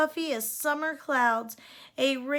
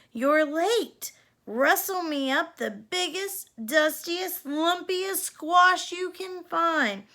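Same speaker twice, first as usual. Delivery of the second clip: higher, brisk cowgirl godmother voice; bossy godmother; 5 semitones higher, 3 dB louder than usual. A narrator's reading. Fairy godmother ordering Cindy to fetch a squash. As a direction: boss her around, slow on the last line.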